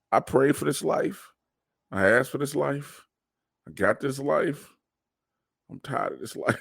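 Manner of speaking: mock-solemn testimony that drops on the last line; mock grand speech. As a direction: build it up like a sermon, then deflate. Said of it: "Let me tell you something".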